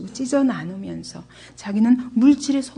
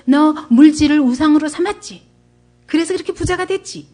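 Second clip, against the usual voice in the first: retold accusations, pressed as leading questions; condemning; 4 semitones higher than usual. Friends list Job's supposed sins to him, condemning. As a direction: play the accusers passing judgement. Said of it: "이래가면서 정죄하는 거예요".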